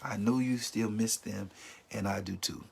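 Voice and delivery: gentle, sincere reassurance; comforting a friend who lost someone; compassionate. Shown as a demonstration. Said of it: "you should say".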